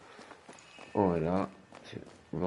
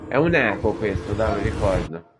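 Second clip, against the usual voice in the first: excited; 8 dB louder than usual. Real, not acted. Excited realization while playing.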